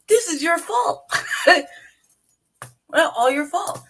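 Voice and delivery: high and loud, slow and laughing; mock accusing shout. Blaming the teacher for the shooting: high, loud, laughing. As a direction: jab the blame at them, half laughing.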